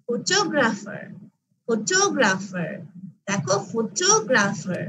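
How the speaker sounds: ফটোগ্রাফার said slowly, weight on টো; stress on second syllable. Shown as a demonstration. Teacher models for class, second syllable টো of ফটোগ্রাফার stressed. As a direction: lean on the second syllable টো in ফটোগ্রাফার, falling after it. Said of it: "second সিলেবলে আমি stress দিচ্ছি ফটোগ্রাফারে".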